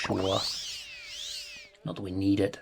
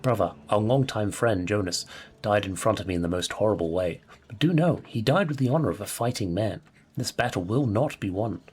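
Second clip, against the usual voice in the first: lightly voiced dying warrior writing to his brother; hint of a character voice, earnest farewell letter; doomed mercenary's letter; 3 semitones lower than usual. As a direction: read it as a solemn last letter in a put-on accent. Reads dead man's letter in character.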